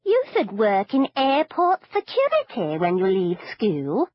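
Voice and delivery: chirpy grandmother praising her granddaughter; doting granny; old granny. Acted. Granny voiced in the story.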